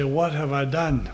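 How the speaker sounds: "What" stressed, then the line falls off; stress on what, falling. Shown as a demonstration. Preacher contrasting emphasis, "What" stressed and falling. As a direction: hit "What", let "done" drop. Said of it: "it makes a difference where we put the emphasis".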